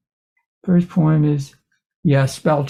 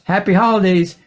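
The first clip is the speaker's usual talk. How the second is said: friendly dog; 5 semitones higher than usual. Acted. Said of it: "She's friendly and only says".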